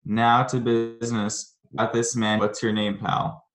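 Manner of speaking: lightly voiced cheerful cartoon mouse; a hint of a perky cartoon host; Mickey Mouse voice. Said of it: "chuckled Mickey".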